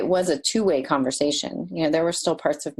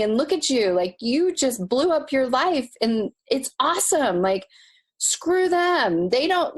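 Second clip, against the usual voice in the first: high, bright cheering pep talk to herself; much higher, thrilled self cheer; inner cheerleader; 8 semitones higher than usual. Retold or imitated. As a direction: gush encouragement like your own biggest fan. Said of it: "You personified this good parent that was cheering you on".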